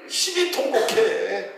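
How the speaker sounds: laughing plea to weep hard; laughing exhortation. Real, not acted. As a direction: urge it while chuckling. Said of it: "preacher urges weeping, laughing".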